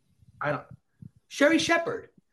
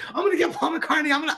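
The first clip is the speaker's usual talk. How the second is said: much higher, louder mock shout; obsessed fan yell; 12 semitones higher, 4 dB louder than usual. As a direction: replay the frantic chase cry. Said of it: "I was obsessed".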